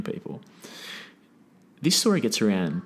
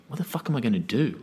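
quick, panicky rush of words; a fast, frantic mock panic; rising panic; 5 dB quieter, faster than usual. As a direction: blurt it out, hurried and scared. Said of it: "he just starts to panic".

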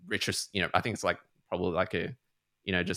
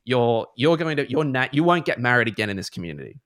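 mum warning; 3 semitones higher, 6 dB louder than usual. Retold or imitated. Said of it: "trying to calm her down and be like".

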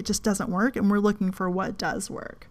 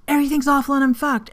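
panicked inner voice; 6 semitones higher, 3 dB louder, faster than usual. Retold or imitated. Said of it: "you're like".

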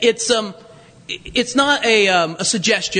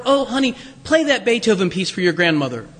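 gentle mother; 2 semitones lower than usual. Retold or imitated. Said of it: "a gentle tone".

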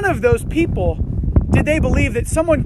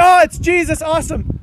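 louder, higher, hammed-up cheer; mock excitement; 4 semitones higher, 5 dB louder than usual. Disciples mockingly imagined greeting the risen Jesus, hammed-up cheer. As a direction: toss it off like a delighted fan. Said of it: "They say".

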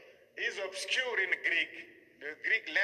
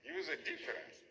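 "huge" jumps much higher while the voice drops much softer; soft, high repeat for emphasis; emphatic echo; 10 semitones higher, 10 dB quieter than usual. Shown as a demonstration.

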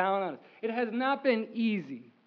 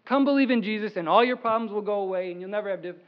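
mock false promise; 2 semitones lower, 3 dB louder, faster than usual. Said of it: "It's not".

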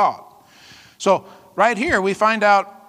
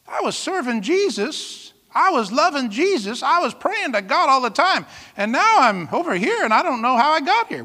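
mildly puzzled, higher-pitched quote; a higher, plaintive touch of bewilderment; bewildered backslider; 4 semitones higher than usual. Acted. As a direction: lightly act out someone realizing they've drifted. Voicing a bewildered backslidden believer.

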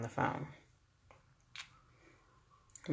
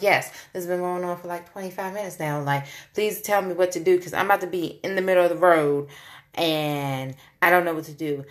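panicked plea; 2 semitones higher, 3 dB louder, faster than usual. Retold or imitated.

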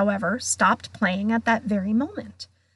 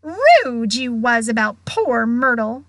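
teasing poltergeist; 6 dB louder than usual. Acted. Peeves teases, louder.

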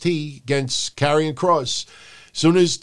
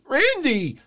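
squeaky high cry of the name; hammed-up high-pitched call; mock referee yelp; 12 semitones higher than usual. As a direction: yelp it way up high like a clueless ref. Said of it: "referee goes".

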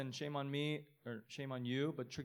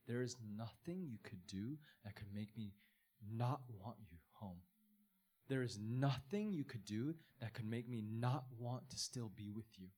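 tender welcome; 2 semitones lower, 5 dB quieter than usual. Acted. Father to his returning son, tender and quiet. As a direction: hold him close with your voice.

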